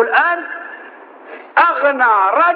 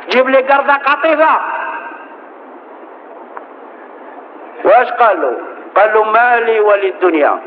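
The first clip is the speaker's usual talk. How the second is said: impassioned preaching. Acted. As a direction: preach it out with full force. Preaching sermon at full force. (خطبة حماسية بصوت عالٍ)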